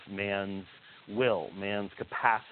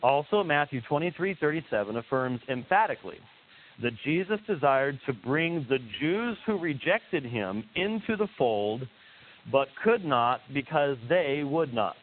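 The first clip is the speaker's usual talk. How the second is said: slower, every word set apart; slow deliberate repeat; 2 semitones higher than usual. Shown as a demonstration. Host rereading a quote so listeners catch every word, slow and deliberate. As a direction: read it again slowly so each word lands. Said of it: "let me repeat that again so you can hear exactly".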